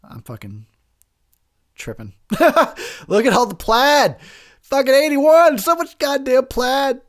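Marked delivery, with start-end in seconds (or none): 3.1-7.0 louder, higher exclaim; incredulous shout. Real, not acted. Host reacting to the eighties outfits, loud amused exclaim. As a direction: cry out at the plaid.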